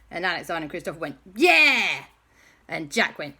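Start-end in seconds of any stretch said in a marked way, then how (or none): 1.4-2.0 high, loud cry of backing; defiant shout. Acted. Two allies backing up Owen's accusation, defiant shout. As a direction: shout your support defiantly.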